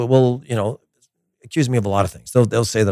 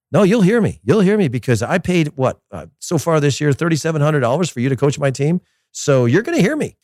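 entitled parent; 5 semitones higher than usual. Retold or imitated. Voicing an entitled paying parent.

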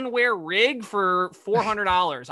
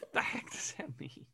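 unvoiced baffled whisper; 2 semitones lower, 16 dB quieter than usual. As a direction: mutter it under your breath. Baffled aside.

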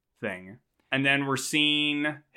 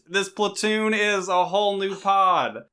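commandant voice; 5 semitones higher than usual. Acted. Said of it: "that's enough of that".

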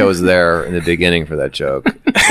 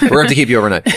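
laughing; 5 semitones higher, much faster than usual. Pretend. Mock doctor, laughing.

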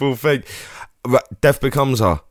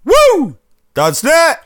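high whooping cheer for the sponsor; excited whoop; 4 dB louder, much slower than usual. Real, not acted. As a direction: whoop it up like a fan.

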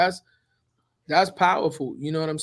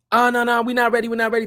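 dismissive mentor; 6 semitones higher, 4 dB louder, much faster than usual. Retold or imitated. Mentor brushing him off.

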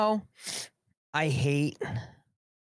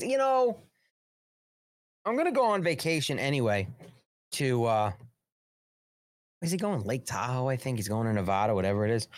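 a hint of the president musing aloud; mimicking Joe Biden. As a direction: toss off his vacation plans like a mocked president. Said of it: "This is Joe Biden speaking".

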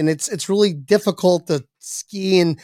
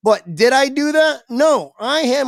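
defensive; 5 semitones higher than usual. Real, not acted. Comic telling the crowd he knew, high and defensive. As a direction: insist you knew it all along. Defensive about the ski lift.

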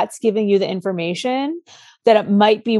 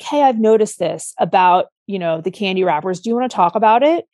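warm and calm. Shown as a demonstration. Parent gently raising the candy wrappers with a child, calm and warm. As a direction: ask gently so the kid can open up. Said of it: "say something very warmly, very calmly".

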